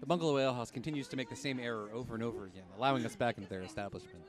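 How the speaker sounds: golf announcer. Pretend. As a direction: murmur it like a golf commentator at the green. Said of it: "I'm gonna narrate this like a golf, uh, announcer".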